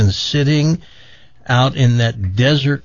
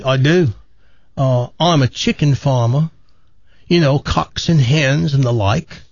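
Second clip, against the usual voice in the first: lightly hammed Aussie-British farmer; put-on Australian-British accent. Chicken farmer chats at a bar, mock Australian-British accent. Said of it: "what's with that accent".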